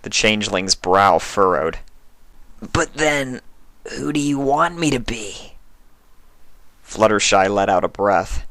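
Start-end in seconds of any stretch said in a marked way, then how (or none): 2.6-5.6 creature trying another disguise; lightly voiced changeling. A narrator's reading. Changeling confused.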